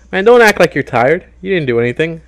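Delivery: high, loud scolding; indignant. Real, not acted. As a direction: call out your lazy partner. Scolding his partner.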